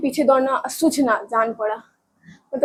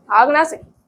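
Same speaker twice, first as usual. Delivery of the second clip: ordinary delivery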